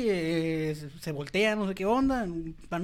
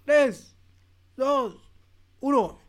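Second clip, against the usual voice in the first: shouted countdown, higher and louder; race countdown; 7 semitones higher, 8 dB louder, much slower than usual. Acted. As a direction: call the start like a race starter.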